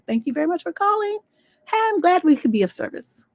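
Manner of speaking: high-pitched customer service sign-off; customer service agent. Acted.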